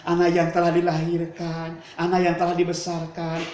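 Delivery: a mother's voice that breaks into a high, grieving cry to God; tearful lament. Acted. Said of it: "dengan menangis". (ibu pulang sambil menangis, meratap lirih kepada Allah)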